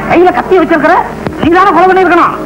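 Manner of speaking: high-pitched, pointed accusation; accusing interrogation. Acted. Inspector accusing the man holding a knife, sharp and high.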